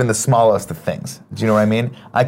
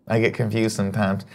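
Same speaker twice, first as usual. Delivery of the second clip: that voice. Pretend. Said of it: "Stop using that voice".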